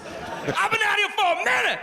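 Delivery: put-on high, shouted African American accent; aggressive African American accent. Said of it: "he speaks super aggressively to the cops".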